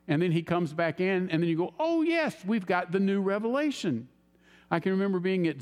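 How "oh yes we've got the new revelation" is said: mock enthusiasm. Mocking the latest-revelation crowd.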